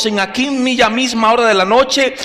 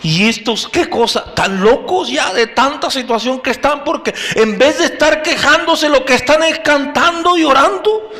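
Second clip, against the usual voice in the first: puzzled prisoners; 5 semitones higher than usual. Acted. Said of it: "allí se preguntaban también".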